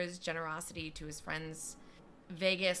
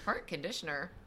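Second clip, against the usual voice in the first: puzzled query of own slip; self-questioning. Real, not acted. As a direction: question the misread word back to yourself. Catches and queries own misreading.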